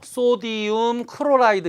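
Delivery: 소디움 크로라이드 sounded out evenly, word by word; English-order reading. Shown as a demonstration. Teacher showing how Americans read the compound, careful English-order reading. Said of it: "이렇게 읽거든요".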